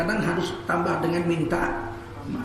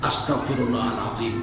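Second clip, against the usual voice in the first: remorseful istighfar; 8 semitones lower, 4 dB quieter than usual. Shown as a demonstration. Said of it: "Sesak napas kita, baru kita ucap".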